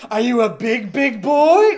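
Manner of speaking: hammed-up seductive teasing.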